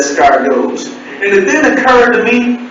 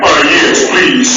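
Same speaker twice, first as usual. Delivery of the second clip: lower, confident grown-man reply; deep man voice; slower than usual. Retold or imitated. Accepting the credit increase, deep man voice. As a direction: drop back to your deep voice. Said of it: "My deep voice came back".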